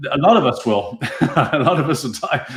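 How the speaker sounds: chuckling through the words; laughing. Real, not acted. Host agrees with a listener about dying, laughing. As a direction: talk through a real laugh.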